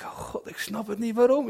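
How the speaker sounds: a hushed, confused prayer; whispered prayer. Retold or imitated. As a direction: whisper it to God. Retells his private prayer. (gefluisterd gebed)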